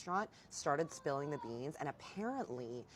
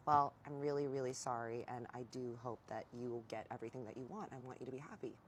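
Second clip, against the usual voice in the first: softer, trailing down gently; retold heartfelt apology; 3 semitones lower, 3 dB quieter than usual. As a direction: imitate an ex apologizing sincerely.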